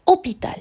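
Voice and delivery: hôpital said clearly, with a closed ô; model word. Shown as a demonstration. Teacher revealing the modern word to learners. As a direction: present hôpital as the answer, with a closed ô. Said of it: "en français actuel".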